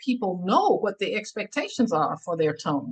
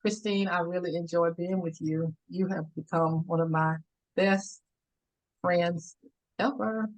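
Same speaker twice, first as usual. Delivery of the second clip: sincere, tender; 2 semitones lower, 4 dB quieter than usual. Shown as a demonstration. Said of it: "I wanna do something".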